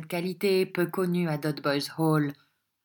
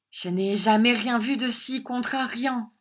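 exclaiming; 6 semitones higher than usual. A narrator's reading. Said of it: "s'écria la jeune miss".

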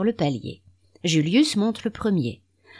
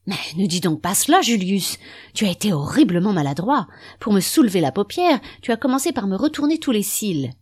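fast, louder, exasperated reproach; irritated scolding; 4 semitones higher, 4 dB louder, faster than usual. Acted. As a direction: snap at a clumsy husband. Wife scolds clumsy husband.

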